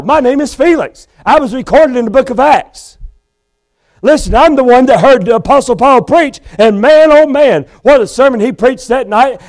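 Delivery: a condemned man insisting he is known; pleading Felix. Acted. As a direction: plead your case desperately to the judge. Felix pleading before the judge.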